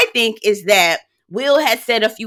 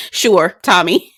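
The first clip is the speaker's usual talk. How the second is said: sarcastic; 3 semitones lower, slower than usual. Retold or imitated. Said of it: "I said".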